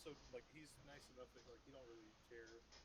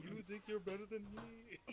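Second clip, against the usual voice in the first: ghostly voice; 6 semitones higher, 5 dB quieter than usual. Acted. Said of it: "ghostly voice saying".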